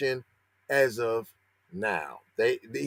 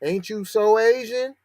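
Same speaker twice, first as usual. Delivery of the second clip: mocking voice; 6 semitones higher than usual. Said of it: "That ain't no racial slur".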